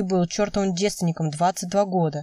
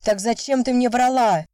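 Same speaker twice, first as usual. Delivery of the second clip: raised, higher angry shout; 5 semitones higher, 3 dB louder than usual. A narrator's reading. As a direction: yell it at her like a madman. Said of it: "ору как ненормальный". (громкий крик, голос выше)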